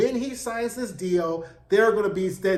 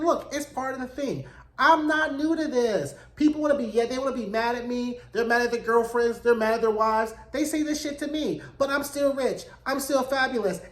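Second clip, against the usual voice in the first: lightly voiced unbothered star, pitched up; imitating breezy self-assurance; 4 semitones higher than usual. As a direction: brush off the haters in a higher voice. The speaker brushes off the insult.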